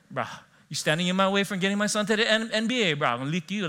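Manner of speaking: mock mainland tough guy; tough guy threat. Pastor imitating a tough sports dad's threat. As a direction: threaten like a mean-mugging dad. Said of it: "That's what it sounded, that's what it felt like".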